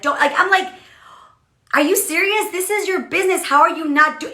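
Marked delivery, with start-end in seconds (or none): 1.7-4.3 high, exasperated scolding; upset disbelief. Retold or imitated. Leader venting about team members missing calls, upset disbelief. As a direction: challenge them, pitched up and indignant. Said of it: "I get all upset".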